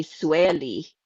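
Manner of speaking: "Sueli" stressed up front, SWELL-ee; accented mispronunciation. Retold or imitated. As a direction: say "Sueli" as SWELL-ee, weight first. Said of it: "they would say".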